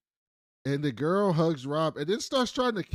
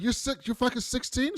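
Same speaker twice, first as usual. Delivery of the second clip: high, disbelieving question; can't believe the age; mock shocked disbelief; incredulous; 10 semitones higher than usual. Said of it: "And she's like".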